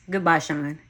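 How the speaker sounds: a touch firmer goodbye; mean it this time; mildly resolute farewell. Acted. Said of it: "with much more conviction".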